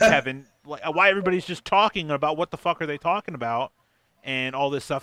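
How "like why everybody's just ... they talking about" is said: loud, high exasperated rant; hammed-up scolding of the boyfriend; retold rant.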